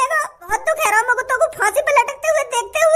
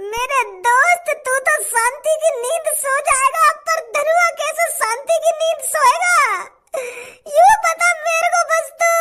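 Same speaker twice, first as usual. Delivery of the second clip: fake crying; 3 semitones higher than usual. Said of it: "रोने का ढोंग कर रहा".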